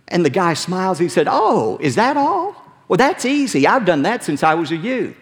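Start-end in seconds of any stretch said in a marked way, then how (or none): 1.3-5.1 smug rich man. Acted. Rich ruler answers Jesus smugly.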